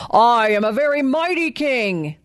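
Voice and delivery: proud lion-king voice; a lightly voiced boastful lion king; lion roaring. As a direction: puff up like a vain lion. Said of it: "he roared".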